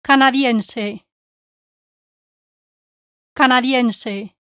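slow careful demo. Shown as a demonstration. Teacher slowly modelling Canadiense for students, slow careful Spanish. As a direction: stretch out Canadiense for a beginner. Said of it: "Can you tell me these ten words in Spanish?".

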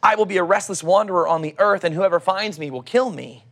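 calm, measured Bible reading; scripture reading. Acted. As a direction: read the passage like a sermon text. Reads Genesis passage aloud.

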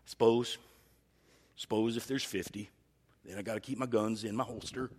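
reluctant sheriff. Retold or imitated. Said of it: "God kind of reluctantly says".

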